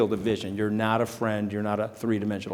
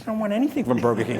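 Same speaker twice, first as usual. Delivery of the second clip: laughing; much faster than usual. Real, not acted. Laughing at Trump's order.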